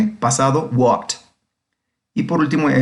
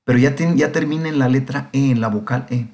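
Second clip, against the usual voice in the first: a lightly voiced student asking, pitched higher; curious student; 4 semitones higher than usual. Teacher voicing an imagined student's question, lightly raised pitch. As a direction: play the eager pupil raising a question. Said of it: "Me podrán decir".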